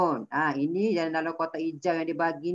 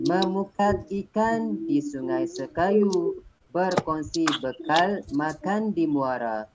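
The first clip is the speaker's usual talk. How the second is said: pantun recitation. Shown as a demonstration. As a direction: lay out the pantun line by line, pausing at each break. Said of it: "itu cara kita membaca pantun dengan intonasi yang betul".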